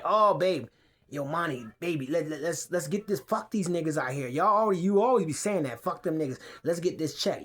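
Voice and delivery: hint of a lazy hustler voice talking money; mocking Turk. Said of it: "I know that's how you is".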